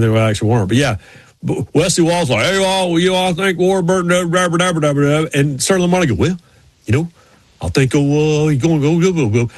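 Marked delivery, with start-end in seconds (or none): 2.4-5.2 Wesley Walls. Retold or imitated. Football player making his race pick, lightly imitated babble. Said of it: "had any idea what the hell they were talking about". 6.2-9.5 halting mock ramble dissolving into babble; Sterling Marlin. Racer answering the football player, imitated halting garble. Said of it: "had any idea what the hell they were talking about".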